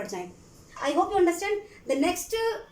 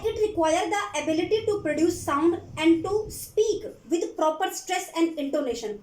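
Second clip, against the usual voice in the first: reads English slowly, word by word, for notes; slow dictation; much slower than usual. Acted. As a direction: spell it out slowly so students can write. (धीमी आवाज़ में लिखवाना)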